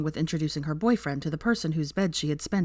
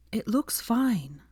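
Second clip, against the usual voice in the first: fondly; 5 semitones higher, much slower than usual. A narrator's reading. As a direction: gently reassure him, taking your time. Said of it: "Hermione told Draco fondly".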